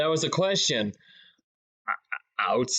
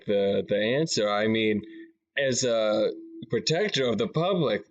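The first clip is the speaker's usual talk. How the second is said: lightly played official, lower voice; protector of the public; 4 semitones lower than usual. Protector pressing Harold to allow inspection, mildly stern. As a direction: press firmly in a slightly lowered voice.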